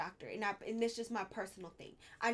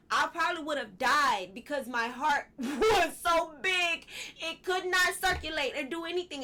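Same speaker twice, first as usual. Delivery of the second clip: laughing; 4 semitones higher, 7 dB louder than usual. Real, not acted. Laughing about near death.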